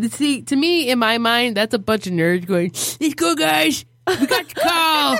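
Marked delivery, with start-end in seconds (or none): 3.0-5.2 eager nerd voice. Retold or imitated. Nerds answering a ghost call.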